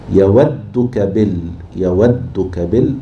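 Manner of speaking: يودك بال drawn out slowly, syllable by syllable; slow rhythmic scanning of يودك بال; metre scanning. Shown as a demonstration. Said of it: "هنا إيه؟".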